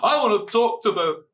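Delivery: high, loud entitled Karen demand. Retold or imitated. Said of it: "basically Super Karen".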